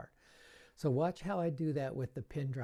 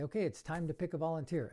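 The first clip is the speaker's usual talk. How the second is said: put-on announcing to kids; 3 semitones higher, faster than usual. Shown as a demonstration. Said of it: "I say".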